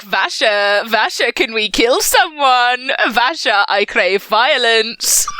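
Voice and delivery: slow, eager voice of a bloodthirsty sword; sentient sword voice. Retold or imitated. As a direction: plead slowly for violence. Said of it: "Nightblood constantly like".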